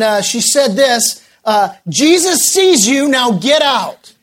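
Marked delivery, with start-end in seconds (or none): 1.9-4.1 higher-pitched mock startled old lady; lightly voiced frightened woman calling out; startled elderly woman. Homeowner warning off a burglar in the basement, mildly startled. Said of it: "rather startled, afraid, elderly woman's voice".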